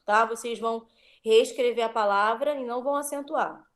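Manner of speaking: ordinary talk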